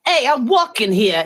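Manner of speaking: hammed-up American city accent; exaggerated East Coast American accent. Joking about the wrong Boston, in a mock American accent. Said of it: "it wasn't that strong accent".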